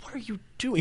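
high-pitched mock disbelief; incredulous. Baffled friend questioning the rice and protein mix, incredulous. Incredulous reply to odd food.

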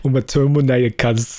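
a hint of Arnie with an Australian twang; Aussie Arnie. Repeating the Australian Arnie line to a friend. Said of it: "Aussiest Arnie".

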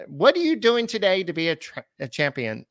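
high put-on accent, falling back to normal; Drayton McLane. Repeating the owner's catchphrase for his co-host, put-on accent. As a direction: start the imitation high and accented, then let it drop. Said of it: "I caught the accent afterwards".

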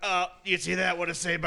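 strained, high play-by-play voice; put-on announcer voice, pushed up high. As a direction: mimic a radio guy calling hockey. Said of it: "he's literally doing play-by-play of the Hawks game".

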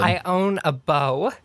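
drawn out slowly; slow line read. Shown as a demonstration. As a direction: stretch each word out. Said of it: "That one wasn't good".

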